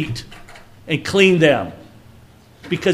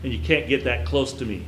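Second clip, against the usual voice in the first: protective God voice; 4 semitones lower, 4 dB quieter than usual. Retold or imitated. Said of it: "This is the voice of God protecting Moses".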